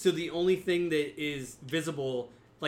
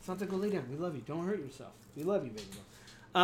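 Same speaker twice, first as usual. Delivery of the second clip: softer, affectionate pet talk; tender aside; 6 dB quieter than usual. Real, not acted. Speaker settles the dog on the chair, tenderly. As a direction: soothe the dog quietly.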